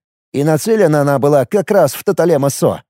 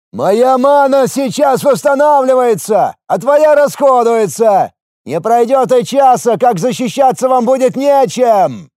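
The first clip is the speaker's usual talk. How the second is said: booming voice; 8 semitones higher than usual. A narrator's reading. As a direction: boom the threat down from above. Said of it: "Вновь прогремел голос со стены".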